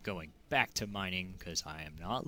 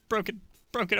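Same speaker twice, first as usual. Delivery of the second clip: much higher and louder, half laughing; exasperated outburst; 14 semitones higher, 9 dB louder than usual. Real, not acted. Player watching gems break again, exasperated laughing outburst. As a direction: let it burst out in laughing despair.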